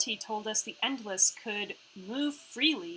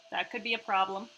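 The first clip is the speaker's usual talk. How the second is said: usual speaking voice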